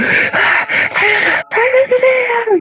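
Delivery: mock very high, thin, wailing cry. Retelling a woman outside screaming for help: imitating a woman screaming for help. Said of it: "엄청 울부짖으면서".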